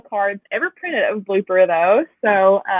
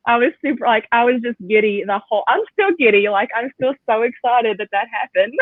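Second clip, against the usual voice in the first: giddy excitement. Real, not acted. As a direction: still giddy reliving the moment. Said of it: "I can hear it in your voice".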